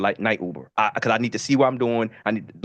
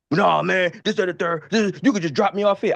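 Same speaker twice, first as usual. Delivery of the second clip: higher-pitched imitation of a drunk rider; drunk passenger; 5 semitones higher than usual. Drunk rider brushing off his Uber driver, imitated higher-pitched protest. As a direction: protest like a tipsy passenger, words running together. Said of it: "I don't know that he drunk".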